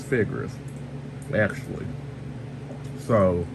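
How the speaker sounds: talking around ice in mouth. Real, not acted. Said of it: "sorry, I got ice in my mouth".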